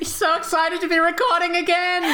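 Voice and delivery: laughing high through the words; giggling while talking. Real, not acted. Talks while laughing hard.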